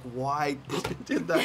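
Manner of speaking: slow, laughing why; laughing exasperation. Retold or imitated. Director watching the actors' scene, laughing at himself. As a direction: laugh through the question at yourself. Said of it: "and I'm like".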